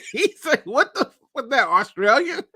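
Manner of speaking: high, helpless laughter through the words; laughing. Real, not acted. Host cracking up at own bad accent, laughing. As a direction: crack up while getting the words out.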